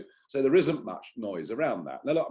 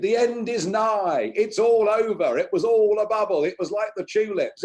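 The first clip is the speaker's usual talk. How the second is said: lampoon the panicking press, pitched way up; mocking doom-sayers; 12 semitones higher, 8 dB louder than usual. The speaker mocking the press crying doom, high and louder. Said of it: "they all said".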